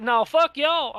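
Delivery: high, loud mock outburst; animated retelling of an indignant refusal; retold defiant refusal. Acted defiant refusal to rescuers.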